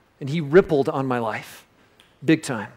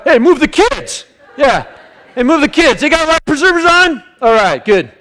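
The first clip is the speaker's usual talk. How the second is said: loud mock call to wife, higher; playful shout across the pool; 13 semitones higher, 8 dB louder than usual. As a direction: call out over the pool noise. Acting out asking wife at pool.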